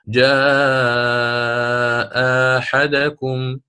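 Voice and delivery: long chanted جاء, then أحدكم opening on a short plain alif; ibdal with qasr. Shown as a demonstration. Teacher gives the example of substitution, ibdal with short vowel. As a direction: recite جاء أحدكم slowly, second hamza replaced by a short aa. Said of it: "فأبدلن مع القصر".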